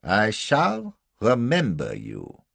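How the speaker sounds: repeated menacing threat. A narrator's reading. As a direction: stretch out each word as a threat. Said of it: "he said a second time".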